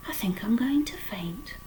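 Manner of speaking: 1 faint-voiced pig. A narrator's reading. Wilbur about to faint.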